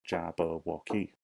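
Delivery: "Jabberwocky" in four distinct beats; syllable by syllable. Shown as a demonstration. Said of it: "with four syllables".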